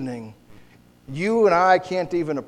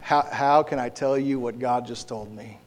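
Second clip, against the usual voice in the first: hesitant, then quicker and softer; squirming Samuel, lightly acted; 3 semitones lower, 4 dB quieter than usual. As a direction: lightly act out squirming reluctance, sinking to a quick murmur. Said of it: "Samuel is just squirming like".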